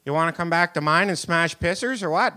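put-on rural Canadian farm accent, crude; the farmer's daughter's accent, blunt; farm girl accent. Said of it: "What she said was".

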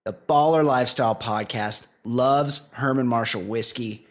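measured podcast commercial delivery; scripted host-read advert; sponsor ad read. Acted. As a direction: read it as a whiskey endorsement. Reads a whiskey sponsor ad.

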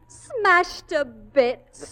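dismayed wail. Acted. Wife mourning broken wedding present.

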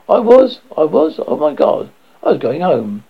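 a dead man waking in terror; panicked confusion. Acted.

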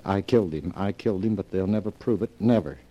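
emphatic retelling of a cry in sleep. Retold or imitated. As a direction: punch out the reported confession. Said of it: "he cried out distinctly".

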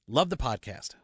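measured email read-out; reading aloud. Acted. Cohost reading a listener's email on air, measured. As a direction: read the letter out evenly and formally.

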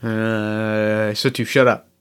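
low, hushed goblin bickering. Acted. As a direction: keep it down, they might hear you. Hissed whisper in hiding.

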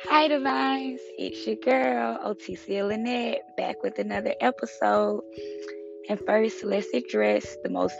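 husky, allergy-worn hoarse voice; rough hoarse voice like a middle-aged man. Real, not acted. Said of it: "the voice of a forty-year-old man".

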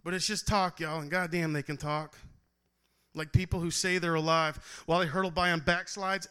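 driving spoken word verse; performing a slam poem to the crowd; slam poetry. Acted. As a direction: build the poem with rising force.

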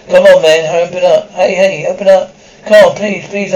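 frantic begging to be let in; urgent pleading. Acted. Chased man at the door, begging to get in: frantic plea. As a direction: push the words out, hurried and pleading.

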